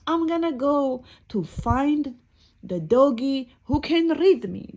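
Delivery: mock-tearful protest; crying book. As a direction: wail it as the upset little book, without real sobs. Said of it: "And the book is crying".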